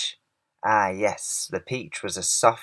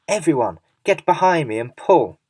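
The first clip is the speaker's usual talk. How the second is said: loud, higher commanding call; rally the crew to haul; shouting on; 5 semitones higher, 6 dB louder than usual. A narrator's reading. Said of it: "shouted the old green grasshopper".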